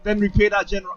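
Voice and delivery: amateur British officer; terrible British accent. Acted. Officer explaining the refugees' offence, terrible British accent. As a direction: report it in a badly put-on British accent. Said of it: "I've got a terrible British accent".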